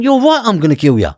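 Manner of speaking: high, loud furious outburst; retold raging shout; enraged threat. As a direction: yell the threat at full pitch. Retells threat to father.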